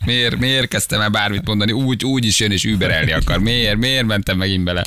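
slow, hammed-up self-pity of a storyteller who was topped; mock regret. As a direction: drag it out like you regret ever speaking. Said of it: "És már megbánod". (eljátszott, lassú megbánás)

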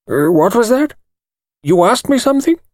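lightly voiced elderly lawyer, startled; thin precise voice. A narrator's reading. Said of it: "thin, precise little voice".

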